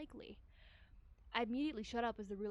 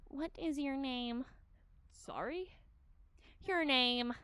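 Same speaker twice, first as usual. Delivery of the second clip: imperious detective; 3 semitones higher, 5 dB louder, slower than usual. Acted. Shigure demanding name.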